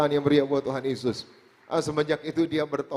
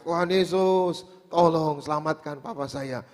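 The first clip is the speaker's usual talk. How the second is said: retold prayer cry; 2 semitones higher than usual. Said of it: "Tambah lagi saya teriak". (menirukan seruan doa yang tertahan)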